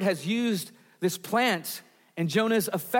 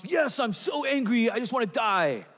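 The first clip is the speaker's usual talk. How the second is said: mock tantrum of an angry five-year-old; over-the-top angry child; 4 semitones higher than usual. Preacher mimics Jonah answering like a five-year-old, mock tantrum. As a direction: whine it like a sulking little kid, hammed up. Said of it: "you get this over-the-top extreme response".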